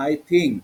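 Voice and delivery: "think" starting with aspirated t; teacher's demo, "think" with a থ sound. Shown as a demonstration. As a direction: model "think" with a clear থ. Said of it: "এটা হলো থ".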